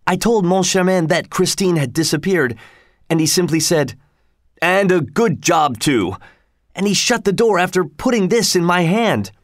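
high, breathless telling; winded, words pushed between breaths. A narrator's reading. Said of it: "all out of breath".

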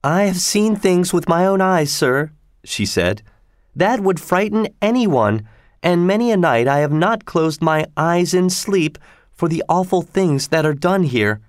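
put-on old servant pressing a grave warning; stern warning. A narrator's reading. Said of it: "she sternly warned Mister Otis".

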